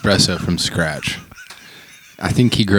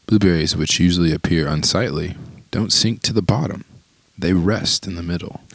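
poem reading. Acted. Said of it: "Will you read the poem?".

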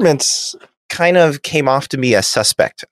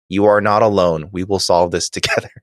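gently reassuring, settling lower at the end; 4 semitones lower than usual. Retold or imitated. Picard reassures a panicking Reva as scripted, reassuringly. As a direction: read it as understated reassurance. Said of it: "tries to reassure him".

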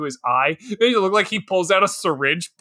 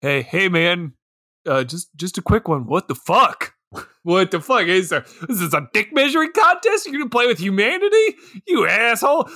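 rising, incredulous mock outrage; exasperated Raiden; 2 semitones higher than usual. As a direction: scold him like a fed-up buddy. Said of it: "Raiden is looking at him".

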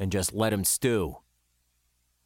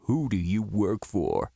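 hissed through teeth; 3 semitones lower than usual. A narrator's reading. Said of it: "he hissed through his teeth".

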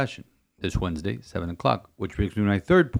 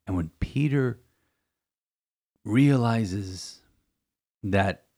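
breathy hush before the story; hushed storyteller whisper; slower than usual. Acted. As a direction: drop to a whisper to draw them in. Dramatic hush in the homily.

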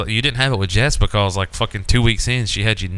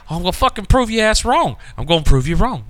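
retold defiant outburst; 10 semitones higher than usual. He answers back in retold quarrel.

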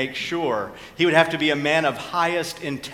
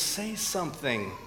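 hushed, much softer aside to a colleague; mock whisper; 10 dB quieter than usual. A narrator's reading. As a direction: lean in with a lightly voiced whisper. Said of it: "leans over and whispers".

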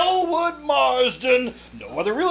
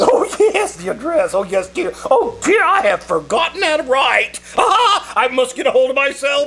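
flustered excitement. Acted. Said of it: "don't get excited".

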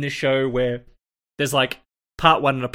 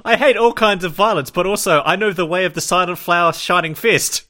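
slightly hammed-up, raised and louder quote; mock martial-arts hero; 4 semitones higher, 4 dB louder than usual. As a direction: mockingly proclaim it as the fighter. Mocking the character's contradictory claim.

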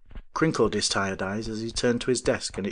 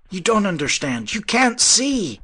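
high, loud and slowing; shouting; 11 semitones higher, 6 dB louder than usual. A narrator's reading. Avery shouting at the professor, high and loud. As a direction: shout it, stretching "can't". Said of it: "was shouting now".

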